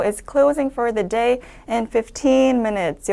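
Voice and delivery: slow read, "fifteen" drawn out, falling on "minutes"; falling end. Shown as a demonstration. Teacher modelling the announcement line slowly, with a fall. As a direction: stretch "fifteen," then drop. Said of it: "fifteen minutes 이렇게 하고 한번 내려 읽고 끊어주고요".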